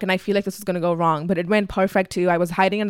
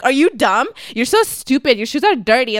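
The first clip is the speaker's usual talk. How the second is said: mock auntie telling-off, higher and a bit louder; retold yelling; 4 semitones higher, 4 dB louder than usual. Mom fighting dad in the corridor, mock scolding. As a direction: imitate a mother yelling insults. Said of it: "yelling at my dad".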